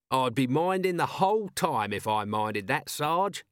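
lightly chirpy corporal; breezy, easygoing reply to the sergeant; a touch of cheer, lilting up at the end; cheerful. A narrator's reading. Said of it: "said Corporal Nobbs cheerfully".

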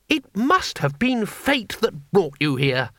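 high, eager little man; chirpy high-pitched foreigner; high tourist voice. A narrator's reading. Two Flower voiced.

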